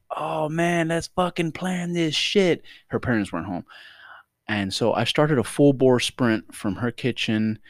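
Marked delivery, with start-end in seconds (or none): 0.1-2.6 higher, slow eager mock voice; hyped. Retelling her excitement about planning, higher slow hype. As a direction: draw it out, pumped up. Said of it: "I said".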